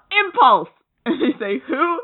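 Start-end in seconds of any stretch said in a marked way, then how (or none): 0.1-0.7 high mock-heroic announcement; big proclamation. Bart naming himself to playground kids, big high proclamation. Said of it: "in big, you know, like, impulse font". 1.7-2.0 put-on puzzled kids. Kids' puzzled reply, acted.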